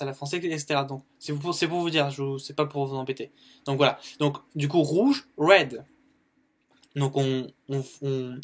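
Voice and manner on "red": "red" loud, with a rolled R. Shown as a demonstration. A teacher shows French learners how to roll the R in red. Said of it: "on enroule le R en fait".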